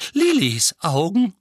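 high, loud, drawn-out piping; wheezy voice. A narrator's reading. Silver-haired wizard on Lilly's eyes, wheezy voice. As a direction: pipe it up high and slow. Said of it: "mit pfeifender Stimme".

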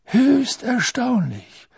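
high, drawn-out amused wonder; gleeful mock astonishment; chuckle in the voice. A narrator's reading. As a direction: say it slowly, suppressing a chuckle. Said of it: "mit einem Glucksen in der Stimme".

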